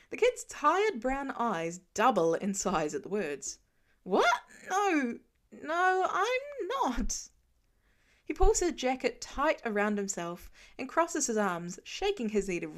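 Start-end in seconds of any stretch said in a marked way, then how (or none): 4.0-7.3 high, loud, startled, the last no drawn out slowly; a cornered boy blurts out a denial; panicked denial. A narrator's reading. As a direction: deny it fast like a scared kid.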